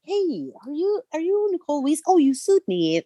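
mock friendly greeting. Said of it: "he's like".

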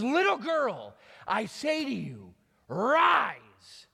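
rising to a loud, ringing command on rise. Acted. Jesus commanding the girl loudly to rise. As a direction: order her up with full voice. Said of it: "he calls out to her".

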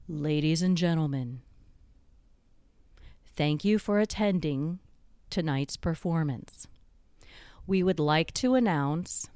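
lightly voiced theater announcer, measured with long pauses; formal announcement, phrase by phrase, only a hint of deep voice. Loudspeaker announcing a cast change to the audience, lightly acted announcer voice. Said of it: "the deep voice coming over the loudspeaker".

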